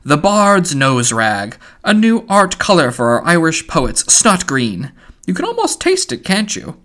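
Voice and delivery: theatrical mockery, dropping to a whisper; mocking Buck Mulligan. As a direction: tease him like a showman.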